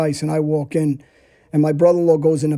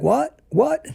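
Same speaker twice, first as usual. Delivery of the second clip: mock surprise; 10 semitones higher than usual. Big guy reacting to threat.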